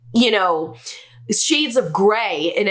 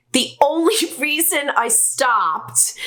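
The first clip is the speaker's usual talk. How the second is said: laughing; 4 semitones higher than usual. Real, not acted. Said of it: "oh, this is awful".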